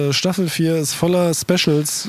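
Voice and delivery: tipsy, slurring the words; slurred speech. Real, not acted. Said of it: "entschuldigt bitte unsere leicht lallende Aussprache".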